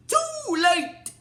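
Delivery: high, slow villainess cry; stretched-out mock gloating in a high voice; Discordia. Imitating a villainess cutting off a last request, high and drawn-out. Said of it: "but then she's like".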